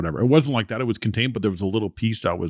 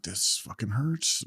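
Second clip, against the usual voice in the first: pained inner grumble; 2 semitones higher, 7 dB quieter, slower than usual. Retold or imitated.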